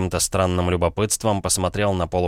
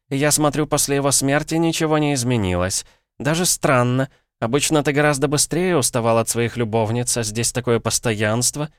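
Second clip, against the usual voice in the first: high-pitched female character voice, accusing; a countess needling her rival in a high voice; accusing ghost countess; 8 semitones higher than usual. A narrator's reading. Dead wife accusing Natalya of an affair, high and pointed.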